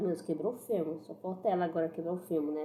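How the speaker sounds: usual speaking voice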